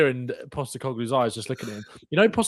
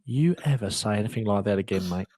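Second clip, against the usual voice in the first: mock furious manager; 4 semitones lower than usual. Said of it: "acting Postecoglou threatening staff".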